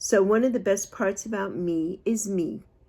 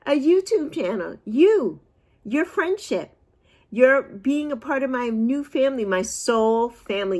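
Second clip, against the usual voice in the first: excited; 5 semitones higher, 3 dB louder than usual. Real, not acted. Gushing to viewers.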